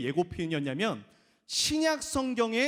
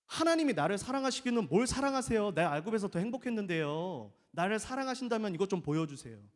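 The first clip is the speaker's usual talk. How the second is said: ungrateful complaint. Retold or imitated. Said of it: "이스라엘 사람들은".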